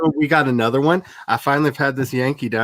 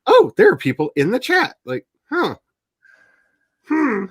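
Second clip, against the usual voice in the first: mock surprise; 12 semitones higher, 4 dB louder than usual. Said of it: "I was like".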